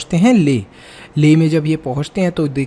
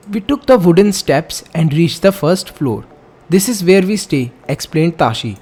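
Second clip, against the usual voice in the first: slow, deliberate textbook reading; measured classroom read-aloud; reading aloud slowly; much slower than usual. Acted. Reads textbook passage aloud.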